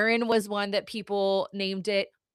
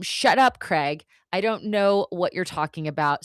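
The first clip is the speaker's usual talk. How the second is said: telling off Craig; 6 dB louder than usual. Retold or imitated. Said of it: "and I tell him".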